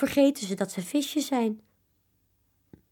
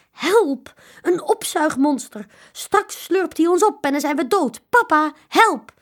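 high, loud panicked calls; children shrieking for papa in fear; frightened cry for help; 8 semitones higher, 7 dB louder than usual. A narrator's reading. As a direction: cry out in terror of the monster. Children terrified of the vacuum.

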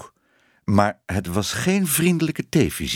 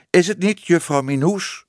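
pointed question, higher and emphatic; stern; 9 semitones higher, 3 dB louder than usual. A narrator's reading. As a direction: press her for agreement, sternly. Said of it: "vroeg Tibbe streng". (streng en nadrukkelijk)

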